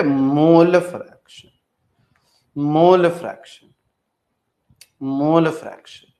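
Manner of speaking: loud announcing. Real, not acted. Teacher announcing new topic.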